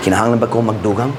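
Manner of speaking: fast, rising "Kinahanglan ba ko magdugang?" like a gentle threat; quick rising warning. Retold or imitated. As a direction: toss off the question with a lift. Repeated as God's question.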